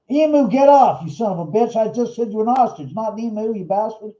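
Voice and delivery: hammed-up scolding of a pecking hand-puppet bird; mock angry yell.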